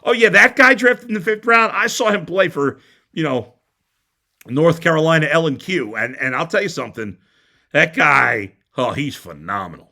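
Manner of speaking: a cocky expert showing off, lightly overdone; mock know-it-all radio guy. Radio host mocking a know-it-all caller. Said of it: "some schmo who's, like, a sports radio guy".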